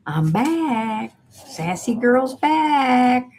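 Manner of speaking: sassy. Real, not acted. Livestream host answers a chat jibe about being sassy, sassy. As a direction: stretch it out with sassy pride. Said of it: "You bet I'm being sassy".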